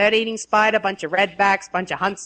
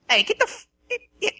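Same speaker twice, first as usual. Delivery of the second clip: yelling at an animal; 4 semitones higher than usual. Pretend. Yelling at kangaroo on lawn.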